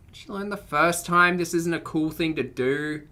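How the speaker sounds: usual speaking voice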